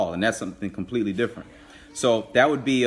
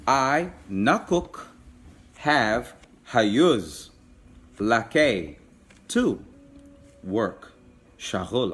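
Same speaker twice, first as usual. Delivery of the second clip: slow word-by-word gloss; much slower than usual. Shown as a demonstration. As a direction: lay it out word by word for learners. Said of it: "you would say".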